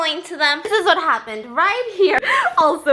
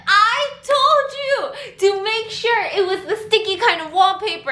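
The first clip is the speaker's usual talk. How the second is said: laughing exasperated; 5 semitones higher than usual. Retold or imitated. Retold scolding while laughing.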